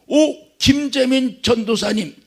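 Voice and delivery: put-on a senior pastor recognising the young preacher; delighted greeting. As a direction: greet him like a long-lost friend. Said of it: "딱 그러는 거야".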